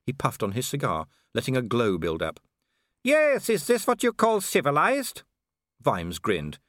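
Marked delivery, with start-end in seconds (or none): 3.0-5.2 high, put-on villain voice; mock him from high in your range; taunting werewolf villain. Werewolf sneering at the watchman's little badge, high and taunting.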